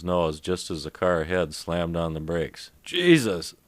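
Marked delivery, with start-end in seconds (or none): 2.8-3.5 sudden high, loud exclamation; shocked yelp; startled cry. Acted. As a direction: jump out of your skin at the braking car. Car ahead slams on brakes.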